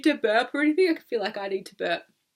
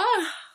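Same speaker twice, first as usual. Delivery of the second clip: big sigh; 11 semitones higher than usual. Shown as a demonstration. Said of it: "letting out a big sigh".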